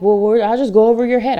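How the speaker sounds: a lightly voiced snippy colleague; mocking threat. Imitating pushy colleagues who threaten to go over her head, lightly mocking. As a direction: toss off the threat like a smug colleague. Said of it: "other people who are like".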